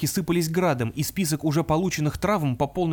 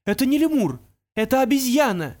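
loud, higher call across the cliffs; straining to carry; 9 semitones higher, 4 dB louder than usual. Acted. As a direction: push the voice to the other cliff. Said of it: "Юноша напряг голос".

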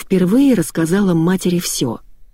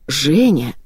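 ordinary delivery

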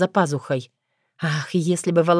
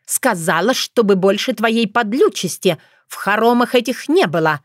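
stern declaration; 4 semitones higher than usual. Acted. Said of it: "заявила княжна".

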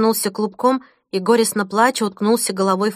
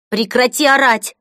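shouting; 3 semitones higher, 5 dB louder than usual. Acted. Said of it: "прокричала она".

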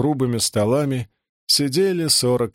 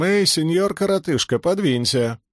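put-on higher, squeaky teasing boy voice; 6 semitones higher than usual. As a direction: squeak it out to tease your brother. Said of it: "сказал писклявым голосом".

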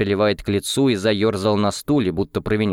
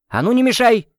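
higher, louder sharp yell; snapping shout; 6 dB louder than usual. Acted. Wife shouts at her husband to stop interrupting, high and loud. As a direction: cut him off with a sharp shout. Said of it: "прикрикнула на него жена".

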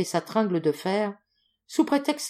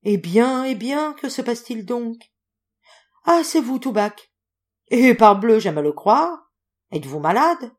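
loud, high, animated questioning; lively exclaiming; 5 semitones higher, 7 dB louder than usual. A narrator's reading. Visitor rousing his silent friend, lively exclaiming. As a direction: burst out at a friend who won't respond.

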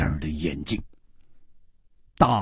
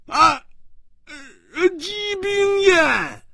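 shouting in shock. Acted. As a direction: cry out the name in disbelief. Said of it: "他大叫着说".

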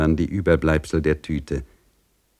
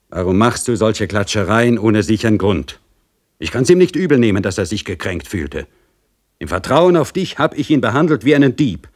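higher, louder reproach; rebuking official; 4 semitones higher, 3 dB louder than usual. Acted. Pristav rebuking Dorchen for her gossip, louder.

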